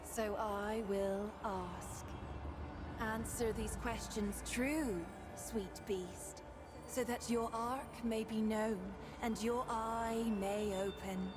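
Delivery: put-on bubbly sorority girl; Valley Girl accent. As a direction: ethereal spirit with Valley Girl lilt. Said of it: "why do you have, like, a Valley Girl accent?".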